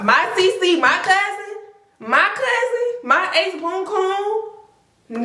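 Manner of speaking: high, slow mock wail over her cousin. Betrayed by her cousin, high slow mock wail.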